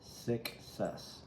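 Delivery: breathy whisper of "Success." falling away; hushed afterthought. Real, not acted. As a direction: whisper it like a secret. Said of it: "I don't know why I said it like that".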